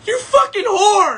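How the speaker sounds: high, drawn-out jealous howl; slow, high-pitched mock scream; mock outraged yell. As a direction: imitate a betrayed ex wailing in fury. Acting out jealous ex bursting in.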